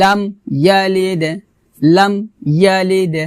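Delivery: "লাম ইয়ালিদ" with m shut, then bounced d; closed m, separated. Shown as a demonstration. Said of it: "এভাবে".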